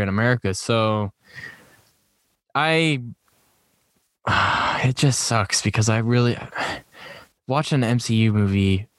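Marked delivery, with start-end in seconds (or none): 4.2-4.8 sigh. Real, not acted. Dismayed at films going to streaming.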